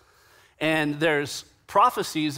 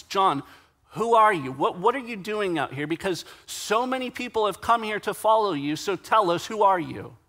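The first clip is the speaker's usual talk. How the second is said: urgent, higher-pitched interrogation; insistent questioning; 5 semitones higher than usual. Retold or imitated. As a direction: demand an answer, voice lifted. Acting the questioners pressing John.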